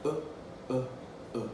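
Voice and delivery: "uh" as a short, isolated vowel; crisp, separated "uh" as in book; short oo sound. Shown as a demonstration. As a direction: say "uh" briefly, pausing between each. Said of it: "Sort of have your mouth like this".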